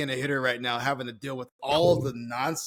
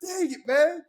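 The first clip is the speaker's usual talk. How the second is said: frustrated curse; 11 semitones higher, slower than usual. Retold or imitated.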